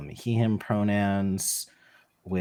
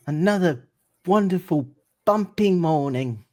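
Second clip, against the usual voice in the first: sighing, higher-pitched rapture at the morning; walrus poet; 7 semitones higher than usual. Acted. Player voices walrus poet greeting morning.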